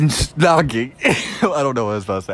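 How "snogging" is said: attempted British accent. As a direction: giggly try at a British accent. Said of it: "I'm terrible with accents".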